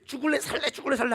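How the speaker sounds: high-pitched mock ultimatum; hammed-up rough scolding; acted threat. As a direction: press the demand twice, play-acting anger. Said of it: "머리끄댕이 잡고".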